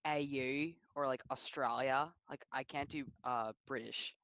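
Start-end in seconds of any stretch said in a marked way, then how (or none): 0.1-0.7 "A U" drawn out slowly; elongated vowels. Shown as a demonstration. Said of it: "I elongate my vowels too much". 1.3-2.1 "Australia" said slowly with long vowels; elongated vowels. Shown as a demonstration. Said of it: "I elongate my vowels too much".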